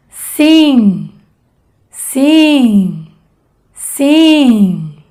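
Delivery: sim with nasal im, air through the nose; nasal vowel demo. Shown as a demonstration. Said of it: "como por ejemplo". (vocal nasal en sim)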